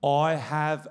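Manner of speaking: slow, voiced secret, lightly acted; understated mock-serious confession; mock child's whisper. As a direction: imitate a kid solemnly confiding, word by word. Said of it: "and he whispers this".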